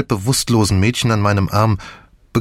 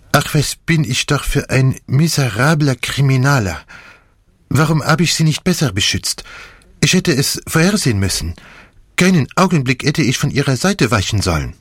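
bitter self-reproach; 5 semitones higher than usual. A narrator's reading. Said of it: "qualvolle Bitterkeit".

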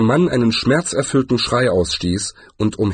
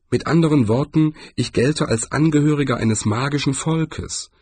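lightly voiced dwarf, pitched higher; a touch of resigned craftsman, raised pitch; dwarf jeweller; 4 semitones higher than usual. Dwarf explaining the threat to Cohen, lightly voiced.

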